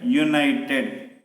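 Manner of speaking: "United" slowly, opening on a clear "you" sound; pronunciation demo. Shown as a demonstration. Teacher showing the consonant sound that starts the word, "United" sounded out slowly. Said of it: "united is the pronunciation".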